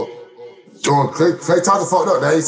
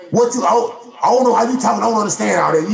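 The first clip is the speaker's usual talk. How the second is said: mock confused fan; 4 semitones higher than usual. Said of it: "Or you gonna say".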